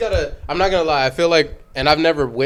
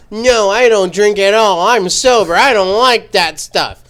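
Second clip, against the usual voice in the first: slow, prim, higher "I don't drink at all"; mock a self-righteous sober guy, slowly; stiff preachy refusal; 5 semitones higher than usual. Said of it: "I seem like a fucking twat".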